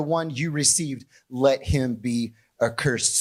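measured public Bible reading, slowing on the curse; solemn scripture read, weighty on accursed. Acted. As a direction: read it out to the congregation. Reads scripture aloud.

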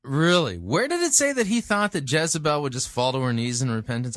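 high, loud disbelieving question; incredulous challenge. Real, not acted. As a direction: demand the source in disbelief. Challenges preacher's added detail.

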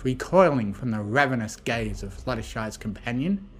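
ordinary delivery

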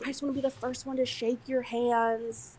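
put-on plain, no accent. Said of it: "I'm not gonna do the accent".

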